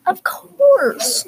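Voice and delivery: high, bright-eyed of course; cheerful elephant. Acted. Friendly elephant happily agreeing to Ellie, high and eager.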